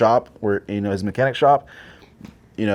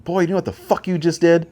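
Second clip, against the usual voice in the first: gruff grandpa; 8 semitones higher than usual. Retold or imitated. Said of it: "And Grandpa was like".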